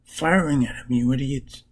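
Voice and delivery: lightly acted scolding shout; mock shouting. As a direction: imitate shouting at bumbling allies, without full volume. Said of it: "Starts shouting at them".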